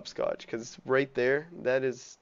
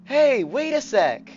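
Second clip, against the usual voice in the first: put-on higher, louder spunky kid calling for help; stuck and pleading with friends; 8 semitones higher, 8 dB louder, slower than usual. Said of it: "like, a spunky voice".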